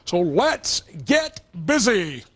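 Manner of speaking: slow, drawn-out sportscaster announcement, lightly done; Marv Albert impression. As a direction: stretch it out like a play-by-play call. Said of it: "I'm trying to do my little Marv Albert impression there".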